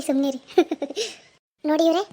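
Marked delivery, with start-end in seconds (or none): 0.4-1.1 short bout of crying; acted sobbing. Frightened shopper told she was only teased, sobbing. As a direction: sob on without words. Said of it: "ನೋಡಿ ಇವ್ರೆ, ಅಳ್ಬೇಡಿ".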